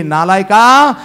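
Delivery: loud mock-furious wife's outburst; wife's angry scolding. Wife with rolling pin scolding her husband, loud mock anger. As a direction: scold him loudly, rising into an accusation. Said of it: "लाटणं घेतली आणि माझ्या उराव बसत म्हणली".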